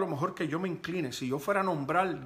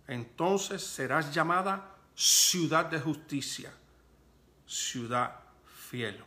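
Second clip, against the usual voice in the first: scripture reading. Real, not acted. Reads scripture aloud to congregation.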